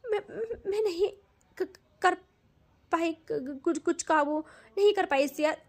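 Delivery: stammering, broken pleading; begging forgiveness. Acted. Tanu at Siya's feet begging forgiveness, broken stammering sobs. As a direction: beg through sobs, words breaking apart. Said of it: "गिड़गिड़ाने लगती है".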